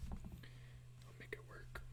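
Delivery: breathy slow whisper under the breath. Real, not acted. Artist whispering reassurance to himself while fixing a shadow. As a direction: murmur it slowly to yourself. Repeats line, second whispered.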